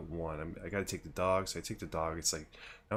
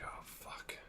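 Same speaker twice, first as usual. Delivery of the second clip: hushed, nearly whispered mock dismay; muttered dread; 16 dB quieter than usual. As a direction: mutter it under your breath, dreading it. Retold dread, muttered between friends.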